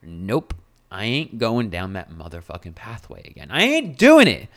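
self-talk that ends in a shout; defiant refusal. Retold or imitated. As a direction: shut down the hopeless voice, rising to a yell. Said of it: "I'm just like".

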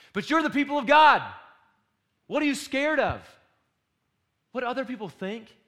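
loud high shout at the congregation; preacher's rising yell. Real, not acted. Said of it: "And I'm yelling at you".

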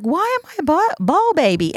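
high, cracking voice through tears; half-laughing tearful. Retold or imitated. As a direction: wail it up high like you're half crying. Retold sobbing, calls self baby.

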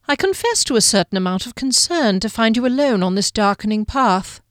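lightly voiced courteous guardian; gently formal, show measured concern. Guardian finding the woman alone at dusk, politely concerned.

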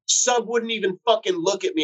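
high-pitched indignant rant, imitating a friend; retold pissed complaint. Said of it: "he was so pissed".

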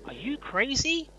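slow high start, swelling to a shout; wooden cop acting. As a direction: overact a bad movie cop. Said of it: "some wooden acting there from the N Y P D guy".

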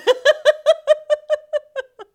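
high squealing laugh; giggling fit; high laughter. Real, not acted. Laughing at own line.

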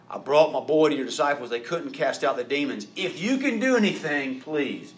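pleading, rising desperate plea; desperate father begging, voice climbing. Acted. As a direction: beg like a frantic dad. Desperate dad pleading to Jesus.

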